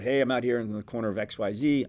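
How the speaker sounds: demonstrating an on-scene live report; lightly put-on TV reporter delivery; live reporter stand-up. Shown as a demonstration. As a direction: report it live to camera, steadily. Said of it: "as far as reporting on it".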